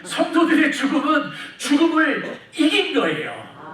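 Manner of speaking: 이긴 stretched slow and loud, rising. Shown as a demonstration. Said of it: "이럴 때 아멘 해주셔야 되는데". (아멘을 유도하며 느리고 크게)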